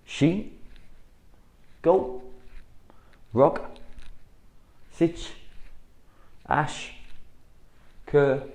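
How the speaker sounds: sharp dojo counting; called count. Shown as a demonstration. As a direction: bark each number to the class. Coach calls out drill count.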